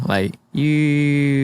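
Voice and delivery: drawn-out falling "youuu"; slow-motion falling noise. Retold or imitated. Guest retelling his fall from a tree, drawn-out falling noise.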